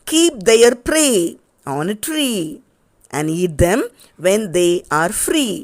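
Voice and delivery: slow, sing-song classroom poem reading; poem recitation. Shown as a demonstration. Teacher reciting a poem to children, slow and lilting. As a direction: recite each line with lilting stress. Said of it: "recite the poem with correct intonation".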